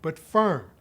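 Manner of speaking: calm but firm. Shown as a demonstration. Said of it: "keep your voice".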